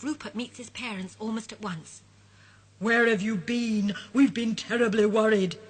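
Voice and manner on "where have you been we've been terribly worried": a father scolding from relief; worried father. Acted. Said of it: "says Mister Bear".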